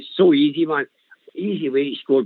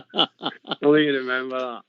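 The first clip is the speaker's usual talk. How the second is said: laughing through the words, a bit slower. Real, not acted. Caller laughing at the host's flattering intro. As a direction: chuckle while disowning the compliment.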